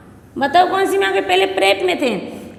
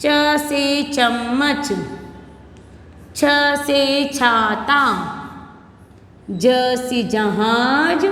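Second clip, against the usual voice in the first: slow, drawn-out letter-and-word drill; consonant recitation; much slower than usual. Shown as a demonstration. Teacher dictating Hindi consonants to first class, slow recitation. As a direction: stretch each letter, then its word, for repeating.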